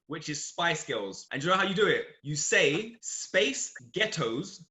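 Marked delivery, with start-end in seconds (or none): 3.0-4.6 slow American-accented "Space Ghettos". Shown as a demonstration. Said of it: "in an American accent".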